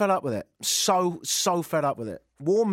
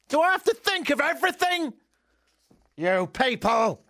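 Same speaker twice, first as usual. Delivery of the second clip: mock exasperation; 10 semitones higher than usual.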